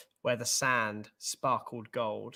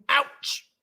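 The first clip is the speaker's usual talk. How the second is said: high, loud acted yelp; pained yelp; 11 semitones higher, 8 dB louder than usual. A narrator's reading. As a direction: cry out as if just sat on. Mouse hurt, story exclamation.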